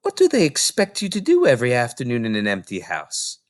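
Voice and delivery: concerned librarian thinking aloud; librarian Mrs Phelps. Acted. Mrs Phelps worrying about Matilda, hesitant librarian voice.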